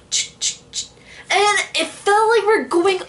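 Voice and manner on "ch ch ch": clacking imitation. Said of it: "it went like".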